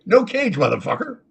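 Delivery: high-pitched defiant parrot; cussing parrot. Acted. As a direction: put on a high parrot voice and refuse. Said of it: "The parrot's like".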